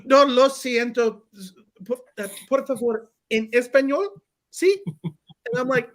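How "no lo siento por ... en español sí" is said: lightly voiced nurse speaking Spanish; a hint of a nurse, higher, pleading. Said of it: "She's like".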